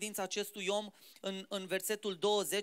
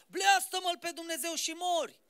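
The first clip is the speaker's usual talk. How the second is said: higher, urging voice, lightly put on; wife pushing Job to curse God, higher and pressing; a hint of the bitter wife; 5 semitones higher than usual. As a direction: egg your husband on to curse God. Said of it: "nevasta asta a făcut".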